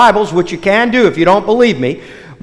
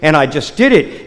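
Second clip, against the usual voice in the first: embarrassed; 6 semitones lower, 3 dB quieter than usual. Acted. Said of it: "Raleigh turns beet red and goes".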